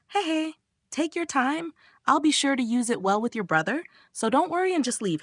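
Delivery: high, teasing sweetness with a grin; grinning reassurance. A narrator's reading. Friend sending Bomb off to leave her with brother, grinning. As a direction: sing it out with a big grin. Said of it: "smiles with a massive grin".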